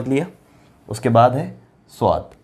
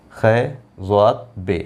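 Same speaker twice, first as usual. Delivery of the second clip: slow spelling; 2 semitones lower, slower than usual. Shown as a demonstration. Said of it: "letters spelt out slowly".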